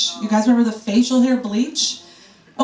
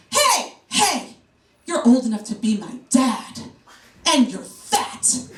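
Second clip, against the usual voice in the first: New York comeback; slower than usual. Retold or imitated. Comic telling off an old catcaller, sassy New Yorker comeback. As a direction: bark it back like a street-tough New Yorker. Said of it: "my inner New Yorker came out".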